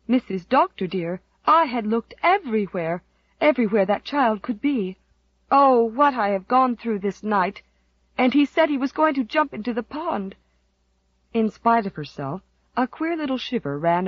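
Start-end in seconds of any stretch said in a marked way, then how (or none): 0.1-10.3 breathless with worry; distraught. Acted. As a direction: pour it out, frantic. Susan distraught, reporting missing child.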